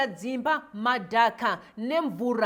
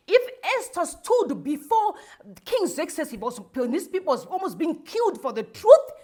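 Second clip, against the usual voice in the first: louder, forceful rebuke of the church; angry preaching; 4 dB louder than usual. Real, not acted. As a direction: scold the prophets, full voice. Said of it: "That's why I'm angry".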